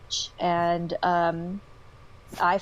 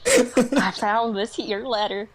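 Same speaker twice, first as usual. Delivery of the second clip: hick voice; 4 semitones higher, 5 dB louder, slower than usual. Retold or imitated. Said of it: "Oh my God".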